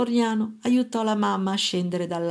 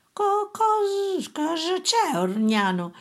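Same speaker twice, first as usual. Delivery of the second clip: a high, halting alarmed mother; stammering mother; 10 semitones higher, slower than usual. A narrator's reading. Mother whispering down to her son, high and stammering. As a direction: trip over the words in fear.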